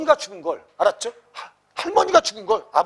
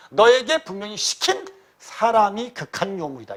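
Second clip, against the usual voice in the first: slow, deliberate mock denunciation; measured accusation with a touch of anger; great anger; 3 semitones higher, 3 dB louder than usual. Uncle denouncing whoever put the boy up to it, mild anger. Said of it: "위진이 크게 놓아여 말하기를".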